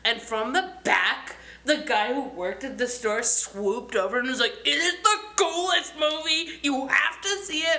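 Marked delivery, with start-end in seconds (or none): 4.6-7.8 high, excited mock fanboy gush; gushing enthusiasm. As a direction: imitate an over-eager store clerk. Gushing store guy butting in.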